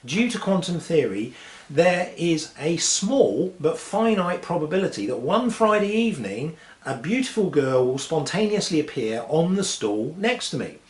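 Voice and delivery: morose. Acted. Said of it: "looks a bit morose".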